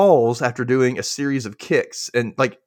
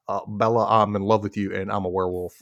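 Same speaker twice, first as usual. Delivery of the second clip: a lightly voiced, lower Taylor Lautner; Taylor Lautner impression; 5 semitones lower than usual. Podcaster mimics Taylor Lautner to cohost, lightly lower and brooding. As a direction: mumble it like a brooding teen heartthrob. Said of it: "that's Taylor Lautner impression".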